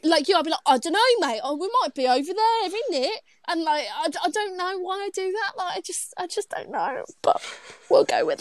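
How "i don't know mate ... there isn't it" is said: fake British accent. Shown as a demonstration. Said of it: "someone that's American trying to be British".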